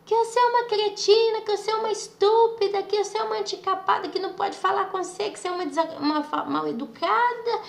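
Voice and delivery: high-pitched tirade of insults, easing off toward the end; retold angry yelling. Relative berating a pregnant woman for refusing, retold angry yelling. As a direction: imitate someone hurling one insult after another. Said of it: "e começou a gritar comigo".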